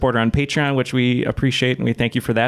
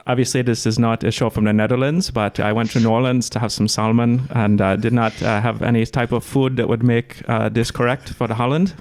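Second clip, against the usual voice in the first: practised Dutch accent. Shown as a demonstration. Host showing off the Dutch accent he practised, Dutch accent. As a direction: speak English with a put-on Dutch accent. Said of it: "I was practicing a real Dutch ac".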